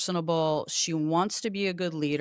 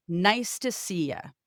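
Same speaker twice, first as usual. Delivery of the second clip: cheery greeting; slower than usual. Shown as a demonstration. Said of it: "cheery good morning".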